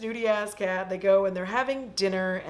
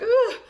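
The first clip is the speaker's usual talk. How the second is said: high, sharp ugh; loud mock groan, pitched way up; imitated disgusted "ugh"; 6 dB louder than usual. Imitated reaction of the character.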